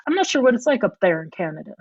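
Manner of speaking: a little Southern twang, tossed off quickly; light Southern accent. Pretend. Guest to podcast host, a quick playful Southern accent. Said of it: "I just put on a little Southern accent".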